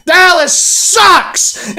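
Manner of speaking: slow, loud drawn-out taunt; gleeful jeer. Real, not acted. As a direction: stretch it out, rubbing it in. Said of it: "I can say that again".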